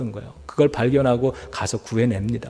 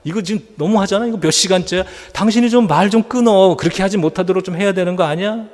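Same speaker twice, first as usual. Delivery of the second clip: angry wife; 5 semitones higher than usual. Retold or imitated. Wife scolds her pastor husband while the guests are away, angry and rising. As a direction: scold your husband with rising pitch and heat. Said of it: "화를 버럭 내는 거예요".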